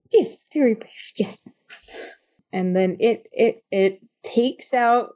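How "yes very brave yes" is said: creature. Acted.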